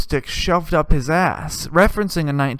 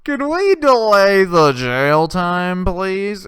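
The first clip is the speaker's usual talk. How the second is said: mock polite plea; 2 semitones higher, 5 dB louder, much slower than usual. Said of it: "They're like".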